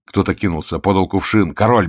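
ordinary delivery

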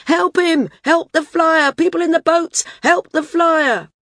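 high, loud call across the beach; crier's shout. A narrator's reading. Crier calling to people in the boats. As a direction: bellow it to the boats below. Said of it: "cupped her huge hands and shouted".

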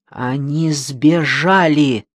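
slowed, grave "they escaped"; alarmed slow announcement. Acted. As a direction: drag it out gravely. Opening line, slow.

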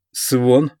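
calling out. Acted. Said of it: "позвал Джош".

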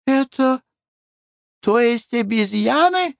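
high-pitched disgusted lady; shrill-free high fussy wife voice; Glafira, squeamish lady. Acted. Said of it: "спросила Глафира Семёновна".

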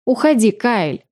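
slow, firm command to leave, voiced as the girl; drawn-out demand, she means it; insistent order. A narrator's reading. Tiara orders him out.

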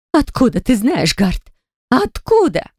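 voiced demand, leaping high on the repeat; angry hiss. A narrator's reading. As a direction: hiss the question, then pitch it sharply up. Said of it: "и зашипела". (злобно, с шипением)

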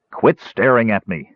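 mildly sullen command; sullen order. Acted. Caramon with his bottle, mildly sullen order. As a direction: order him off with a touch of sulk. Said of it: "he ordered Tass sullenly".

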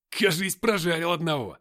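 loud, high gleeful cry; joyful exclaim. A narrator's reading. Nikita exclaims joyfully after burning one. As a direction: crow over the kill. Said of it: "радостно воскликнул Никита".

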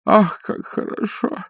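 whispered, high, slow rapture; old man swooning at the dream; breathless delight. A narrator's reading. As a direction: breathe it out in ecstasy. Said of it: "сказал старик".

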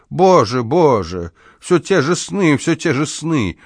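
rising anguished cry, then fading; despairing wail. Acted. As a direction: lament the same dream. Old man in despair. (отчаянный плач)

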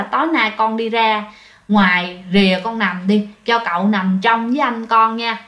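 understated persuasion, pitched low; mild coaxing. Retold or imitated. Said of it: "đã dụ cái thằng Út".

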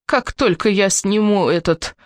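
put-on raspy old lady wheeze; hoarse rasp. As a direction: rasp it out, short of breath. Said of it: "прохрипела старушка". (хриплым шёпотом старушки)

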